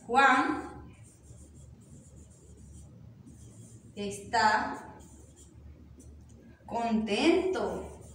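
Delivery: slow, with long gaps after each word; word-by-word dictation. Shown as a demonstration. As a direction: dictate slowly while writing it out. Writing out the synonym sentence.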